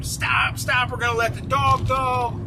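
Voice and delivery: mock police shout at a fleeing suspect; retold cop yelling. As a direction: bark the warning like a cop in pursuit. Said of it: "They're yelling at him".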